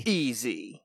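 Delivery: low echoed one-liner; supposed punchline. Retold or imitated. Co-host echoing the Ranger's boast, low punchline delivery. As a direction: echo it low as a would-be punchline. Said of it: "like, the punchline, the way he says it".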